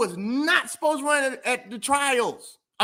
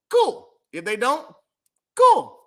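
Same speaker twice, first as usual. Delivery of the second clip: high mock cool; 4 semitones higher, 5 dB louder, slower than usual. Real, not acted.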